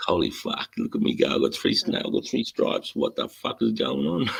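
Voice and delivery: breathless, half-whispered amazement; giddy disbelief. Retold or imitated. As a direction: marvel at your own promotion. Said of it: "I was like".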